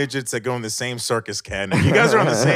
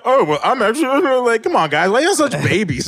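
high mock whiny voice; 8 semitones higher than usual. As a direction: imitate a petty whine. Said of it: "I was like".

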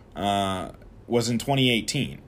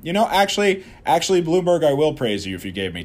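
high, loud sarcastic appeal; mock eager pitch; 6 semitones higher, 4 dB louder than usual. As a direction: pitch it up like a sales plea. Mock pleading to Bloomberg.

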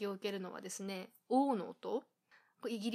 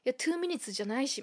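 scoffing retort; 3 semitones higher, 5 dB louder than usual. Retold or imitated. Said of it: "みたいな".

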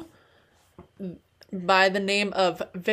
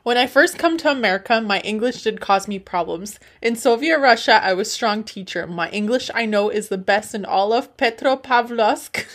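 put-on comic Russian-accented English; 3 dB louder than usual. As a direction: play a proud Russian immigrant with a thick accent. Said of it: "said that all in an accent".

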